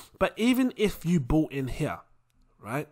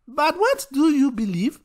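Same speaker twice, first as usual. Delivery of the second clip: higher, insistent Nigerian mum voice; 9 semitones higher, 4 dB louder than usual. Acted. Mum refusing to let her son dodge, insistent. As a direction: corner him with the question. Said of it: "When you got a half Nigerian mum".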